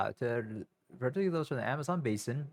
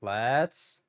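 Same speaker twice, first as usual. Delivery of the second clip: pump-up call; 8 dB louder, much slower than usual. Real, not acted. Psyching herself up to start.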